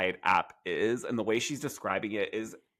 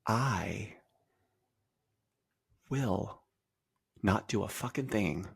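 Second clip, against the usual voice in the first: mock threat; 3 dB quieter than usual. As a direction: drag the threat out, halting between phrases. Acted threat, mocking a castmate.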